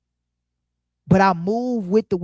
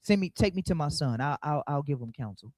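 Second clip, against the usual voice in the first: agreeable mother; 4 semitones lower, 4 dB quieter than usual. Retold or imitated. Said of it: "So the mom like".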